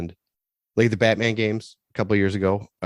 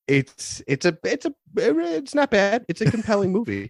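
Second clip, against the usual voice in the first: sarcastic; 12 semitones higher than usual. Pretend. Mock praise of House of Gucci.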